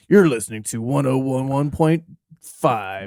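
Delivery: slow, smooth radio announcer. Retold or imitated. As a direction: introduce the station like a DJ. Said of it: "the radio stations we grew up to".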